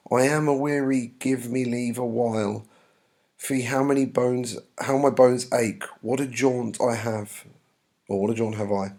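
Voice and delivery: lightly acted complaint; weary nurse reading. Nurse complaining to Juliet of aching bones, lightly acted. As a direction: read verse as a mildly put-upon nurse.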